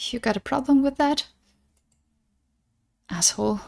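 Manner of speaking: crying while talking. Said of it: "are you crying?".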